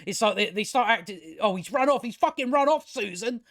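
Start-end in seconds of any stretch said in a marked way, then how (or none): 1.4-3.4 mock panic. Reviewer mocking Owen's panic when Luke runs off, hammed-up alarm. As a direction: play Owen's family panicking over a runaway boy. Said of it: "start panicking".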